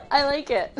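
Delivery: laughing. Real, not acted. Laughing at chat nickname.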